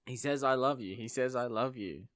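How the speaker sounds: mock calling across the din; calling over noise. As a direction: pass it on over a noisy crowd. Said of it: "she can't hear 'cause it's fucking noisy".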